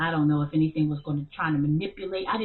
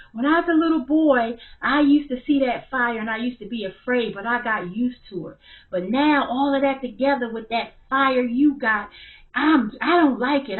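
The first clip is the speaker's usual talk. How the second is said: put-on scared child; 6 semitones higher, 7 dB louder than usual. Frightened son voiced in story.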